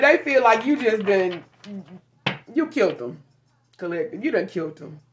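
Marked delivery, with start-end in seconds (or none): 2.5-5.0 hushed and dramatic; hushed verdict. Real, not acted. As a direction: lower and softer, letting it land.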